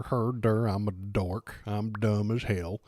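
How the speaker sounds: a touch of dopey mockery; mock dumb voice. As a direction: lightly play a dimwit. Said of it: "Steven Crowder".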